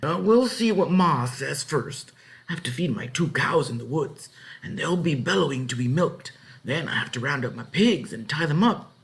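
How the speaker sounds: lightly voiced farmer. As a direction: list the chores unhurried. Farmer explaining chores.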